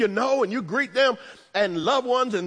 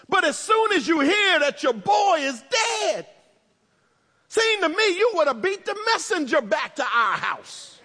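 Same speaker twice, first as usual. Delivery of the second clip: indignant sister; 4 semitones higher than usual. Retold or imitated. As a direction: scold him like a wounded sister who was let down. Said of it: "a sister whose attitude is".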